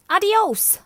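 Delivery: high, loud parting shot; loud farewell. Acted. Martina dismisses the lizard with a shrill, loud cry. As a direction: slam the door with one word.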